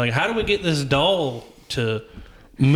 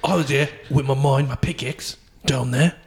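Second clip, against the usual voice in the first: Statham dwarf. Pretend. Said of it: "I like the Statham dwarf".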